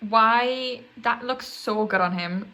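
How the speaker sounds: loud, gushing fangirl; excited. Real, not acted. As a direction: rave about him, loudly. Gushing over a singer's hair.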